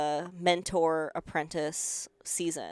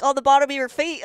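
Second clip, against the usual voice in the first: mocking classmate; 9 semitones higher, 10 dB louder, faster than usual.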